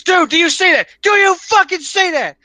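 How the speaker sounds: high, loud panicked friend on a trip; freaked-out buddy. Retold or imitated. Buddy in the car, panicking about a vision. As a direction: yelp it like a friend seeing things.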